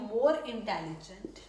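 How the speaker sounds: slow, word-by-word dictation pace; slow model sentence. Shown as a demonstration. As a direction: spell it out slowly for the class. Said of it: "intelligent के आगे क्या लगाने लगी हूँ?". (धीमे, साफ़ उदाहरण वाक्य)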